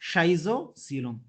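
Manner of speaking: Schizocoelom said slowly, each syllable spelled out; teacher modelling Schizocoelom slowly. Shown as a demonstration. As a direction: drag out Schizocoelom for the class to copy. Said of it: "पहले दो तीन बार आपको थोड़ा अजीब लगता है".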